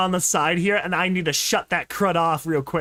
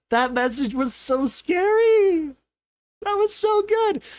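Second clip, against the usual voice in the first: higher, excited shout; 12 semitones higher than usual. Real, not acted. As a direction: gush with fan excitement. Gushing over the scary message.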